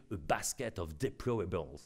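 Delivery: slow, clumsy French-accented English; mock Hillary Clinton in bad English accent; terrible English accent. Shown as a demonstration. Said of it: "avec mon accent anglais terrible".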